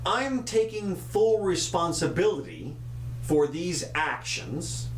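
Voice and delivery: leader announcing he takes responsibility, slow quoted statement; slow, measured delivery of someone else's statement; quoted official statement. Retold or imitated. Host quoting the departing president's announcement, slow official statement. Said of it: "he comes out and he says".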